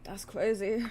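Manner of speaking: playful put-on voice with a rising end; mock-voiced repeat. Repeating her own words to herself, playfully mock-voiced. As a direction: toss it off in a silly voice.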